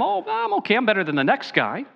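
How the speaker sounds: high, breezy brush-off, then quick; a light send-up of a smug stranger; complacent passer-by. Retold or imitated. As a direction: shrug it off like someone sure they're fine.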